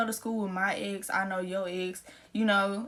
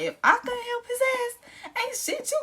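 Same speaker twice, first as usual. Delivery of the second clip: laughing; slower than usual. Real, not acted. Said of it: "laughing while bragging".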